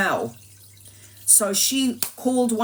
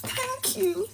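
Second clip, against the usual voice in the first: relieved thanks; slower than usual. Retold or imitated. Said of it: "she was just like".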